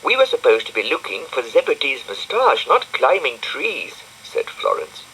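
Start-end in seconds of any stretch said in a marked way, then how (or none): 0.0-4.0 put-on high bright little girl voice; high-pitched girl character; Florence's voice. A narrator's reading. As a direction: lift into a girlish squeak for Florence.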